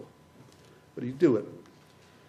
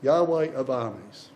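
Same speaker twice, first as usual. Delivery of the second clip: Yahweh slow and weighty; emphasis on Yahweh; 5 semitones lower, slower than usual. Shown as a demonstration. Preacher echoing Tim's reading, slow emphasis. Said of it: "you will have noticed the emphasis".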